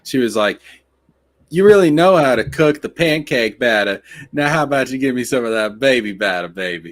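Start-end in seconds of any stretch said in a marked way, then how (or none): 1.5-6.9 imitating a roommate's come-on, louder start; mock seductive request; flirty roommate. Roommate flirting, retold and acted.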